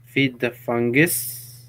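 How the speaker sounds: put-on slow, deliberate Finnish accent; measured attempt at a Finnish accent; mock Finnish accent. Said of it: "You just talk really slow".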